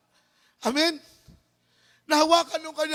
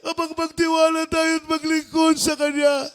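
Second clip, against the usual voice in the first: full-force preaching. Acted. Preacher shouts praise, full force.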